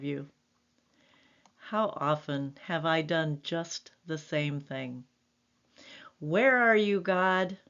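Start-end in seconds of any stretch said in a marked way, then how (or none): 6.2-7.6 desperate cry to heaven; cry out to God. Retold or imitated. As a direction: call out for God like you feel abandoned. Crying out to God in distress.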